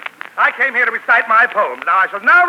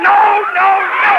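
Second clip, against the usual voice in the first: higher, louder no no no; flustered protest; 8 semitones higher, 4 dB louder, slower than usual. Acted. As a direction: snap back to correct yourself. Poet corrects himself loudly.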